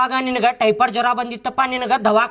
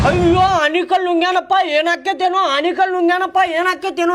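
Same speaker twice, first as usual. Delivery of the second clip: higher-pitched mock alarm; hammed-up worried crowd, raised pitch; retold panic; 5 semitones higher than usual. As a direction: imitate everyone fretting in a panic. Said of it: "ಅಂತೇಳಿ ಎಲ್ಲಾರು ಗಾಬ್ರಿ".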